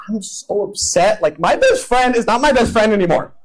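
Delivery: high, whiny rant about friends; whiny upset roommate. Retold or imitated. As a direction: complain like a self-pitying teen. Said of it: "he comes to you just like".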